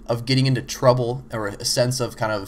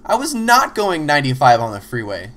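playing dumb; 3 semitones higher, 4 dB louder than usual. Pulled-over driver playing dumb to the officer, mock innocent denial. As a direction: act innocent to the cop. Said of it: "play dumb and go".

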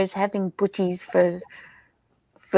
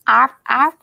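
seal bark; 4 semitones higher, 4 dB louder than usual. Pretend. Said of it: "Now I make it sound like a seal".

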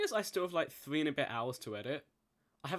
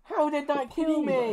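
raging gamer; 11 semitones higher, 8 dB louder, slower than usual. Real, not acted. Just died in game.

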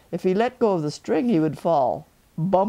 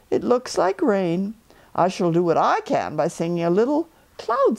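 a cheerful little bear calling down; Pooh Bear; 3 semitones higher than usual. Acted. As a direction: Pooh calling down from his balloon. Pooh voiced in story.

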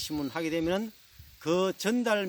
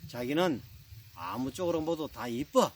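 lightly acted lovey-dovey reply; doting Seoul husband. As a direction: flatter your bride with a touch of cutesiness. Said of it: "신랑이 아내의 얼굴을". (살짝 닭살 돋는 서울 신랑)

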